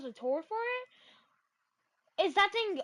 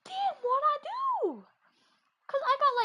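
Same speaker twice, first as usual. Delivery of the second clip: higher and louder, outraged; indignant outburst; 10 semitones higher, 6 dB louder than usual. Real, not acted. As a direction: protest loudly, how dare he. Indignant outburst about being cussed out.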